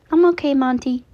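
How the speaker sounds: reassuring. A narrator's reading. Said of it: "Chi-Chi reassured".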